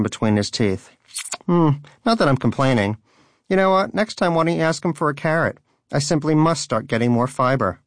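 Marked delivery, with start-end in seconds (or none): 1.5-7.8 smug. Acted. Danish smugly teases Donut.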